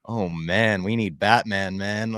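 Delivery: playfully dramatic call for a hero; fired-up plea. Retold or imitated. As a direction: build from a groan to an urgent hammed-up plea. Retells fired-up reaction to the finale.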